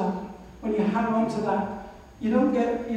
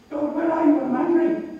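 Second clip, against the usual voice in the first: angry cry to God; 5 semitones higher, 4 dB louder than usual. Retold or imitated. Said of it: "But I was really angry".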